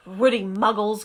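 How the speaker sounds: mild low mock growl; growling Hagrid. Hagrid grumbling about the Dursleys, mild growl. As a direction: grumble it under the beard. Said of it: "growled Hagrid".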